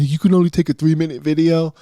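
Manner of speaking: high, loud mimicking voice; sneering imitation of commenters; mocking critics. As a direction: parrot the online critics, snide. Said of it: "People online".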